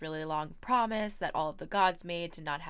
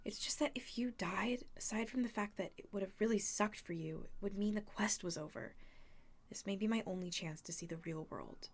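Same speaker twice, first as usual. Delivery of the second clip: whispering; 6 dB quieter than usual. Acted. Annabeth confiding quietly.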